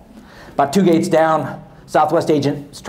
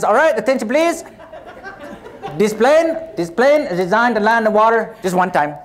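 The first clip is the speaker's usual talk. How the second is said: lightly put-on Hispanic accent, higher; 6 semitones higher than usual. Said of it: "I wanna try to tell you this story in character".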